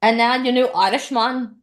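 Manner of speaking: Irish accent. Shown as a demonstration. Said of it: "that was really bad Irish".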